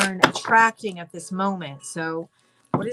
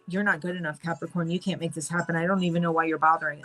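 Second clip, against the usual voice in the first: lightly voiced devil, lower and softer; low, discouraging aside from a shoulder devil; a hint of a quiet, doubting devil; 3 semitones lower, 4 dB quieter, faster than usual. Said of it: "So the devil is going".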